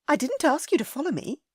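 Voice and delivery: put-on high, worried young lady scolding; a lady upset at his recklessness; Ellie, scolding. A narrator's reading. Ellie indignant.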